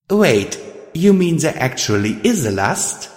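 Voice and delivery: high-pitched, incredulous question; taken aback by the news; shocked. A narrator's reading. Radiant Star questioning Pride about lust, shocked. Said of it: "I stared a bit in shock".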